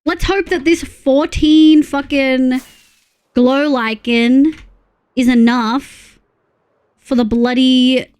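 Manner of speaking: slow, loud, exasperated grumbling; slow, loud grumble over too little glow lichen. Real, not acted. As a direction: drag every word out, fed up. Grumbling about crafting supplies.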